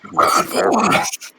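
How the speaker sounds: a hammed-up German accent on "Bratwurst"; mock German, "Bratwurst" said breathily with a rising end. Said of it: "if I try to do a German accent".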